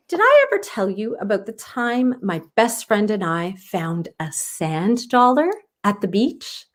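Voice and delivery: lightly voiced grandmother reminiscing; Grandma voice. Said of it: "Grandma asked".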